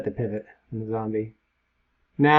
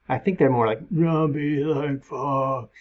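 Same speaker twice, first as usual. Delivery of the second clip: resigned zombie voice; slower than usual. Pretend. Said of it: "Kinda more nihilist, more resigned".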